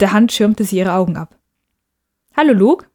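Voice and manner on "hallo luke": bright, much higher and louder hello; little sister's cheerful call; cheerful greeting. Acted. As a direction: greet your brother happily, rising on Hallo. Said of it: "sagte sie fröhlich".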